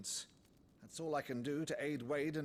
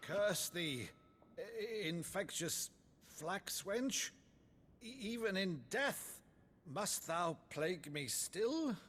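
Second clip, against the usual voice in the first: theatrical sorcerer; 4 semitones higher than usual. Acted. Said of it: "Bravo, Uncle".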